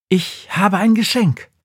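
put-on high, proud old witch. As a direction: announce the gift like the Christmas witch. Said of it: "sagt Befana".

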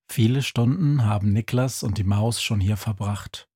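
ordinary talk, nothing marked

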